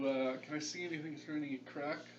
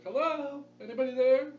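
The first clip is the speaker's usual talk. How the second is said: raised, loud call to the door; mimicked voice; 10 semitones higher, 11 dB louder than usual. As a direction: call out in a borrowed voice. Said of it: "mimic a voice".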